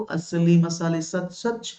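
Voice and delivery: very slow, stretched-out tagline; slow jingle-style recital; ad slogan. Retold or imitated. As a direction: imitate a childhood TV spice ad, dragging the words. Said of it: "एक ऐड आता था बचपन में".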